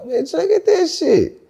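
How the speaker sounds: high, excited retelling; excited quoting. Retold or imitated. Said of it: "I'm like".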